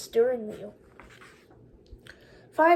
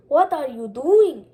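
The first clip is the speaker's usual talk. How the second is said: stern question; 6 dB louder than usual. Acted. Policeman grabs Condi.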